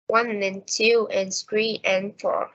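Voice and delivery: steady beats on "One", "two", "three", "four"; counting rhythm with unstressed "and"; even stress timing. Shown as a demonstration. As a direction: stress the numbers evenly, "and" light between. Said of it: "time between stressed words is always the same".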